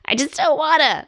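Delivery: put-on a whiny toddler refusing; imitating a stubborn toddler; toddler tantrum. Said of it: "toddler tantrumy".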